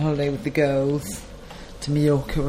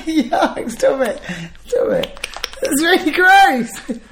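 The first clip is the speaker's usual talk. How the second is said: disgusted; 9 semitones higher, much slower than usual. Real, not acted. Disgusted laughing.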